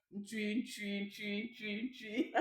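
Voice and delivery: "ntui" repeated softly, pitched high, with small shifts in sound; pronunciation drill on "ntui". Shown as a demonstration. Teacher showing learners that only pronunciation changes, soft high "ntui" variants. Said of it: "c'est juste la prononciation".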